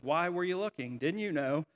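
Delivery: even, understated question, slowing at the end; matter-of-fact. Acted. Jesus replying to his mom, gently matter-of-fact. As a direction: say it simply, without any rebuke. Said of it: "very matter-of-factly says".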